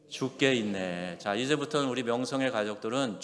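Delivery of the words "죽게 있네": slow, leisurely 죽게 있네 with space between 죽게 and 있네; slow and relaxed. Shown as a demonstration. 죽게 있네 said slowly so it sounds like 죽게 있네 not 죽겠네. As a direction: stretch 죽게 있네 out calmly. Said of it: "해보세요".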